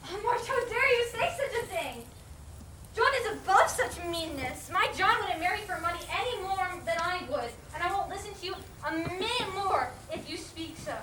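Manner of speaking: loud, heated defense; indignant. Acted. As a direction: defend him with fierce pride. Meg defends John angrily.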